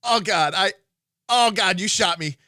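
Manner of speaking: high, loud panicked whining; terrified gibbering. Retold or imitated. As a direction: babble in pained panic. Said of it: "I literally did this".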